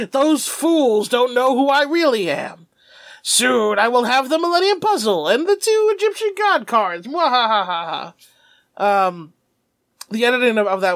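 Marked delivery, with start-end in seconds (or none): 0.1-7.1 lightly voiced scheming villain; a hint of gloating villain; evil monologue. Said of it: "Merrick's inner evil monologue". 7.1-8.1 light hammed-up villain cackle; mock mwahaha cackle; evil laugh. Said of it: "Merrick's inner evil monologue".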